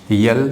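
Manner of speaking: यल said "yul" with a y sound; the wrong way, यल; wrong y-glide. Shown as a demonstration. Teacher showing pupils which form is wrong. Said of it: "wrong होगा".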